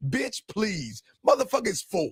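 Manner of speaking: mock-arrogant, put-on arrogant tone. Teasing the listener by acting out their answer: mock-arrogant. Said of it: "you said it in such an arrogant way".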